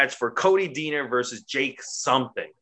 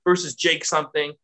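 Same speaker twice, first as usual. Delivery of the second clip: shouty parody of a boss cutting someone off; mocking impression; 8 semitones higher than usual. Mocking the boss to a friend, high mock shout. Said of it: "And he goes".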